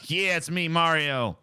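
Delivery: lightly mocked non-effort Mario; Chris Pratt. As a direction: toss off the catchphrase with no character voice. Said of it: "doesn't even fucking try".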